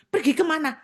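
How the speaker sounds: the ghost cheekily asks where to go; spirit asking back. Retold or imitated. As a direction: ask it back, puzzled. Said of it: "dia tanya saya balik".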